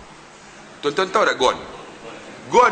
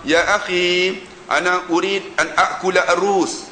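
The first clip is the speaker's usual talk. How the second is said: formal Quranic Arabic; slower than usual. Retold or imitated.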